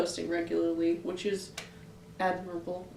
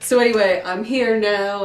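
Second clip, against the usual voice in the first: put-on old-timey radio announcer; 1930s radio voice; 8 dB louder than usual. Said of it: "nineteen thirties radio voice".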